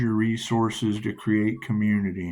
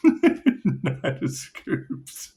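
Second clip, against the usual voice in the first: laughing intonation; much slower than usual. Acted.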